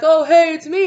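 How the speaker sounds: high, loud friendly greeting; masked friend greeting cheerfully; cheery reveal. Pretend. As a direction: pop out with a cheerful hi.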